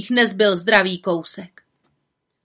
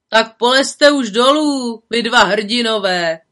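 louder, slow teasing call; mocking call; 5 dB louder than usual. Villagers calling up to the stuck boys, teasing. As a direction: jeer up at the heroes. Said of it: "volali lidé".

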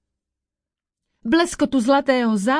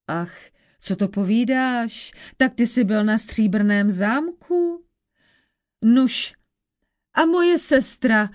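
put-on old witch. Old witch questions the prince.

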